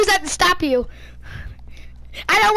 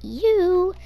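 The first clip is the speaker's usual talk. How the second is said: playing the monster. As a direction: announce yourself as a menacing imp. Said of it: "Here I come".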